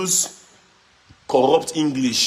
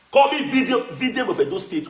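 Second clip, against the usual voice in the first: proud proclaiming; 9 semitones higher than usual. Real, not acted. Proclaiming his own name.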